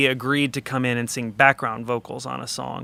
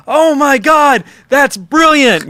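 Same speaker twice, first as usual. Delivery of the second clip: high, loud Yorkshire outburst; excited Yorkshire accent; 13 semitones higher, 12 dB louder, slower than usual. Acted. Producer praising the guitar take, excited Yorkshire accent. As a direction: burst out thrilled in a mock Yorkshire accent. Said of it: "in his Yorkshire accent or whatever".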